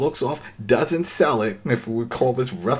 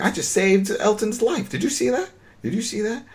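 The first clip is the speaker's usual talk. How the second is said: high, eager showing off; a young guy boasting he just saved someone; excited bragging; 10 semitones higher than usual. Retold or imitated. Retelling Felix boasting to his uncle, high and eager.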